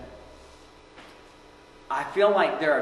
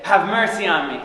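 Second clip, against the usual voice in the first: loud, raised plea; higher-pitched beseeching call; pleading cry; 5 semitones higher, 8 dB louder than usual. Acted. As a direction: cry out for mercy. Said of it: "And we say".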